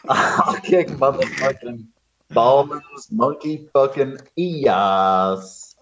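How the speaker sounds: mock tough read. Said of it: "retold line".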